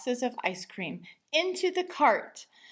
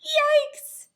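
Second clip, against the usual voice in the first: high, loud shocked yelp; startled yell; 9 dB louder than usual. A narrator's reading. Father spotting the overloaded cart, high startled yelp. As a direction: jump at what you see.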